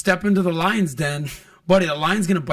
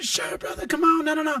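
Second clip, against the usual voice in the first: Mike Tyson voice; 12 semitones higher than usual. Retold or imitated. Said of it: "can we take a picture".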